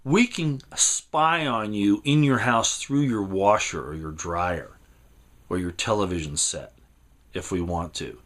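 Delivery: lightly voiced sinister official; menacing official quote. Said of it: "Petraeus said".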